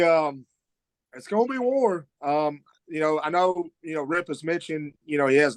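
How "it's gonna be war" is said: hyped. Real, not acted. Wrestler hyping an upcoming match.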